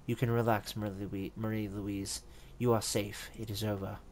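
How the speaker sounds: reassuring. Acted. Father calming his frightened daughter, soft reassurance. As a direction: hush a frightened daughter gently.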